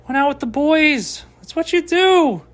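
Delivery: mock bro voice. Repeats line in high voice.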